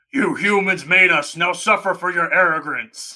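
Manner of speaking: loud video-game mutant creature voice. Giving their rating by quoting a line from Fallout, in a Fallout mutant voice. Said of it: "so I can do that voice".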